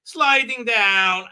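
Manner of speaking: high, loud, slow playful wee; sliding down like a giddy child; little girl on a slide. Retold or imitated. Doctor sliding down like a little girl, high slow wee. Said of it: "like she's a little girl on a slide".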